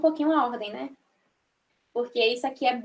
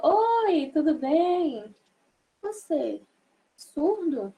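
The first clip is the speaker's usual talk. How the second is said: higher, slow friendly oi; bright greeting; 3 semitones higher, much slower than usual. Shown as a demonstration. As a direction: greet warmly, drawn out. (cumprimento animado)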